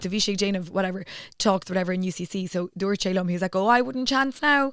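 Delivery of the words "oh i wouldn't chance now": put-on Cork accent, higher. Retelling what someone said about driving in: cork accent. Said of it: "This is my Cork accent".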